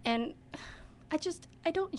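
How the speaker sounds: imitating an upset child, halting with pauses; struggling to express herself. Upset child explaining lateness to drama teacher, halting and emotional. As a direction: falter through an upset child's apology. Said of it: "she couldn't really express herself".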